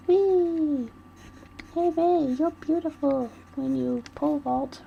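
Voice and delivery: high, loud and squealing; chirpy Nagisa. Acted. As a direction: tease him in a gleeful high squeal. Voicing Nagisa teasing Rei.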